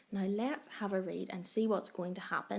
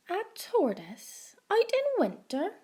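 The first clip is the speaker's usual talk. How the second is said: cat voice; 8 semitones higher, 3 dB louder than usual. A narrator's reading. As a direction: meow it like a sly cat. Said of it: "meowed the cat".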